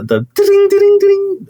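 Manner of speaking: imitated door bell.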